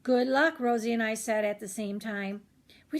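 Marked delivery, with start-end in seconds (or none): 0.0-0.6 louder, encouraging both at once; cheering. Acted. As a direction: cheer him on. Both friends cheer him.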